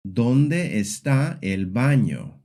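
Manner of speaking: "¿Dónde está el baño?" slowly, falling away on "baño"; question-word question, drop the pitch at "baño". Shown as a demonstration. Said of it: "the voice falls at the end".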